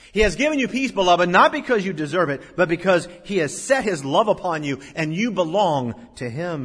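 loud pulpit assurance, starting high and settling; emphatic preaching. Acted. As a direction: proclaim it to the congregation. Preaches at full force.

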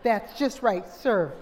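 slow, loud mock chef quote; hammed-up chef, slow and loud; a cook smugly approving the plate. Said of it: "and said".

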